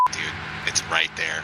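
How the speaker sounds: talking while holding tongue; holding tongue with fingers. Real, not acted. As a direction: speak with your tongue pinched. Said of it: "I'm holding my tongue right now".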